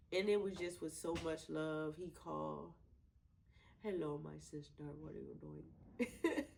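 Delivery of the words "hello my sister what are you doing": put-on brother's playful Indian accent, slow; mock Indian accent, drawn out. Brother greeting his sister in a playful Indian accent. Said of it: "we have this Indian accent".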